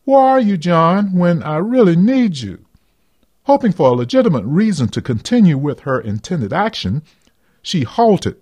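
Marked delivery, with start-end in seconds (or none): 0.0-2.6 longing inner voice. Acted. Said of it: "another voice seemed to say".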